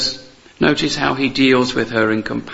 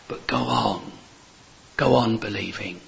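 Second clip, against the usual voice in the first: hushed, almost a whisper; soft urging; 4 semitones lower, 6 dB quieter than usual. Real, not acted. Preacher encouraging the congregation, softly. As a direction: say it gently, close to the ear.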